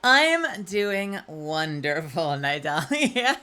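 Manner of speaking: slow, lightly put-on clown drawl; a hint of a weary cartoon clown; Krusty the Clown voice. Greeting Nidalia in a slow clown voice. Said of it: "suddenly became, like, Krusty the Clown".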